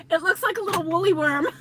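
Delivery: high, quick words through laughter; real giggling. Real, not acted. Woman sees broken duster, high giggly amusement.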